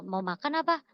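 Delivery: "Mau makan apa" said short, run together; second-meaning question. Shown as a demonstration. Repeating the confusing question she was asked, brief offer. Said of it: "ditanyain kayak gitu".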